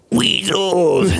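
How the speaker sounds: high cry of alarm; alarmed shout. Acted. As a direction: yell a warning. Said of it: "Piglet's like".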